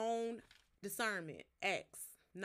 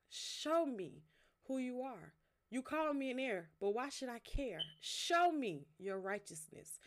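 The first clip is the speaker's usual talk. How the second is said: heartfelt poem reading. Acted. Reading her own poem to her viewers, earnest spoken-word delivery. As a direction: read it like a prayer poem, swelling in the middle.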